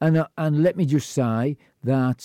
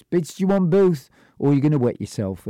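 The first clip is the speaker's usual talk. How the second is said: teasing; 4 semitones higher than usual. Retold or imitated. Teasing a small child.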